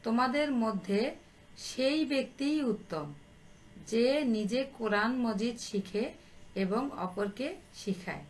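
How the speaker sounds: phrase by phrase, with clear pauses; slow dictation. Real, not acted. Teacher repeating the saying for pupils to copy, slowly. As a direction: dictate the saying at writing speed. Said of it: "আমি আস্তে আস্তে বলছি".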